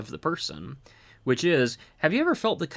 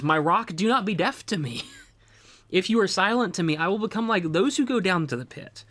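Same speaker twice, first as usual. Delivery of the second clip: pleading psalm line, pitched higher; desperate plea; 5 semitones higher than usual. Retold or imitated. Reading the psalm to the congregation as a desperate plea. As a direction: cry out the verse as a desperate plea. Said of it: "can you not hear the desperation in his voice".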